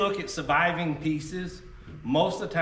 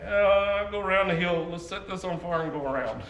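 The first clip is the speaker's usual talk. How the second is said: put-on old men; 3 semitones higher than usual. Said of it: "old men, we stand back and go".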